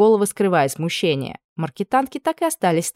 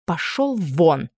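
quiet but weighty; much slower than usual. Acted. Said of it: "Негромко, но веско сказала Анна".

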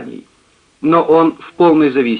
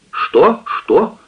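higher, fussy lament of a servant woman; distressed maid; 10 semitones higher, 3 dB louder than usual. A narrator's reading. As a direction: wail it like a flustered maid. Maid answers.

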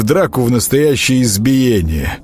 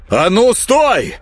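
much higher, slow, falling hard on стой; frantic yell; 12 semitones higher, slower than usual. Acted. Grekhvost yells at the mob to stop, frantic. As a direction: stop them in a frenzy. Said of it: "шалея заорал на них Горехвост".

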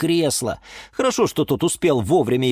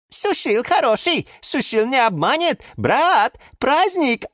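Sushil character voice; 10 semitones higher than usual. A narrator's reading. Sushil greets his found brother, high and excited. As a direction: cry out with joy at finding family.

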